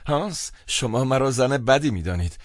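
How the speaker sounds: understated acted weeping; tearful. A narrator's reading. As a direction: plead as if starting to cry.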